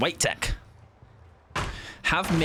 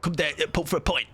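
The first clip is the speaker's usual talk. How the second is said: put-on geezer pub voice; matey geezer impression; Jason Statham; 2 semitones higher than usual. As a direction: lightly imitate a London hard man. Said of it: "the voice I imagine Jason Statham".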